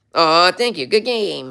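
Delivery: voice pushed way up high. Showing the higher version used in a game, thanking chatters in a pitched-up Bumblebee voice. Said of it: "I pitched him up a little bit higher like this".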